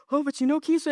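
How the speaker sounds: high, tearful mock plea; imitating crying client. Client tearfully opening up to her coach, high and mock-tearful. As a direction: voice her breaking up as she starts to cry. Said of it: "and she starts crying".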